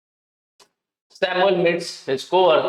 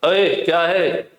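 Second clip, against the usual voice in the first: rude tone; slower than usual. Shown as a demonstration. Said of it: "ये अलग tone हो गया".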